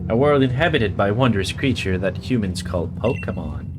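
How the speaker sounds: solemn deity voice. Acted. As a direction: intone it like an ancient deity speaking. Reads deity dialogue aloud.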